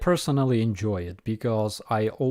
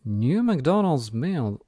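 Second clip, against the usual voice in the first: slow, higher drawn-out mummy moan; 4 semitones higher, 3 dB louder, slower than usual. Acted. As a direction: groan it out like a mummy from a board game. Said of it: "voice of the mummy".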